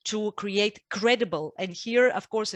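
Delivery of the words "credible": CREDIBLE slowed down and leaned on; stress on credible. Real, not acted. Analyst underlining a key condition of the counterweight, stressing "credible". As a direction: put deliberate weight on the word "credible". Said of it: "I stress the word credible".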